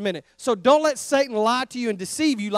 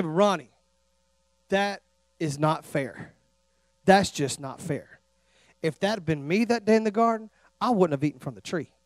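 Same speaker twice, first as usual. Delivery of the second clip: whiny protest; 7 semitones lower, 7 dB quieter than usual. Retold or imitated. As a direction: whine that it's not fair. Imagined whining listener.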